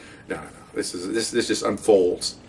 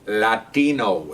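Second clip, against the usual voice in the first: exaggerated Latino pronunciation, drawn out; mocking Latino inflection on the word; mock Latino accent; much slower than usual. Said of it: "is how he talked".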